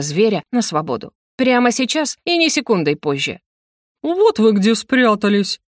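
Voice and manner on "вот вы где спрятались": медленный звонкий оклик нового персонажа; радостно застань их врасплох; бодрый голос. Acted. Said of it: "знакомый бодрый голос". (бодро)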